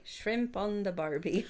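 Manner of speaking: put-on Australian accent slipping into Irish; slow, badly faked Australian accent; botched Australian accent. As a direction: try Australian, land nearer Irish. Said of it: "like, an Irish accent".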